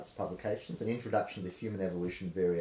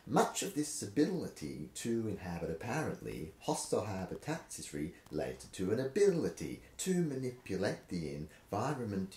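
rhythmic reading. Shown as a demonstration. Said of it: "I'm just losing the rhythm".

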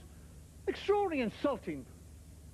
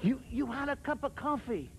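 questioning echo. Acted. Listener querying the American's cup of coffee, halting echo. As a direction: repeat it back as if checking. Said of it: "they always, uh, question you".

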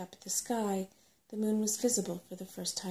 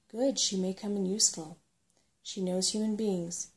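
lightly voiced old dragon, a touch louder; the old dragon giving advice, slightly louder; 4 dB louder than usual. Old Slatebeard advising Firedrake, lightly voiced old dragon.

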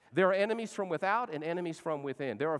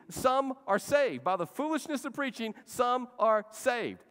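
high, slow, loud and deliberate; slow emphatic preaching; 6 semitones higher, 3 dB louder, slower than usual. Acted. Pastor quotes the Bible on preaching, slow emphatic preach. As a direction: lean on every word.

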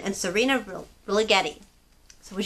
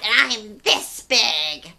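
snappy creature; slower than usual. Acted. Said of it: "the creature snapped".

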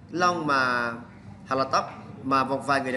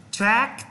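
"track" punched higher; stressed syllable; 5 semitones higher than usual. Shown as a demonstration. Teacher shows students where the stress falls, emphatic demo. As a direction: hit "track" as the accented syllable. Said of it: "Đây là dấu nhấn".

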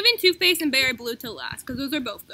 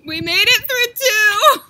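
laughing; 7 semitones higher, 10 dB louder, slower than usual. Real, not acted. Laughing exclaim.

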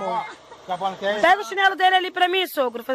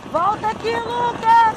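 calling out; 5 semitones higher, slower than usual. Real, not acted. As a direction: call him back across the distance. Calling her son back from afar.

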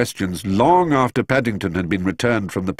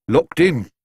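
a touch of bitter indignation; bitter exclamation; 9 semitones higher, 5 dB louder than usual. A narrator's reading. Locked-in policeman complains to colleagues, mildly bitter. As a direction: spit it out with mild resentment. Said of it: "he exclaimed bitterly".

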